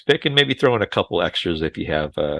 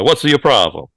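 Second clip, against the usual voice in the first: mock Italian accent, slightly higher; stereotype Italian accent; 4 semitones higher, 4 dB louder than usual. Host parodying Nick Cage's bad movie accent, stereotype Italian. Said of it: "which is a straight up stereotype".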